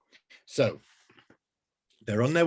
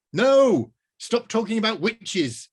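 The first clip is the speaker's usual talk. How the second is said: much higher, louder shout; angry shout; 11 semitones higher, 7 dB louder, slower than usual. Acted. Rose shouting at the wizard to stop talking of witches. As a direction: cut him off furiously.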